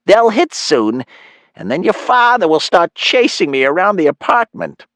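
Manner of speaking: high-pitched, eager mom voice; giddy mother. Acted. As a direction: gush it as an excited mom.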